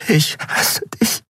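slow, broken whisper; drawn-out hushed whisper. A narrator's reading. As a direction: whisper it slowly, close to tears. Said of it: "flüsterte sie".

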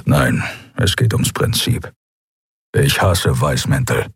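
deep, slow, half-breathed grumble; low grumbling Keru. A narrator's reading. Keru grumbles about the white-coats, deep and slow. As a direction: spit out the dislike, low.

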